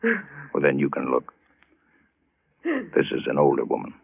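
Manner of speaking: hushed. Acted. Detective finds the body.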